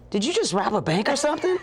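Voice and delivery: high, laughing mock disbelief; laughing quote. Quoting Kevin at the car, high and laughing. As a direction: ask it while cracking up.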